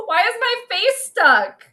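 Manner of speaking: real fluster at a frozen face; flustered disbelief. Real, not acted. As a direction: ask it half laughing in dismay. Face stuck on stream.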